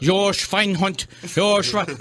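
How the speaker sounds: slow mock German accent; Robin Williams German accent. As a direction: drag out Schweinhund in a German accent. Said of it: "do Robin Williams German".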